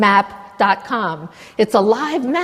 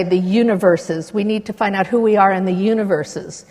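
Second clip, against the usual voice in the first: quoting Von Braun. Retold or imitated. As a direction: lightly voice a thoughtful Von Braun. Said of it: "Von Braun used to say".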